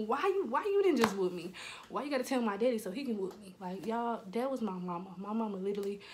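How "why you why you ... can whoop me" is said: mock-aggrieved complaint; exasperated protest. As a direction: plead why, put out and indignant. Exasperated protest to her mama.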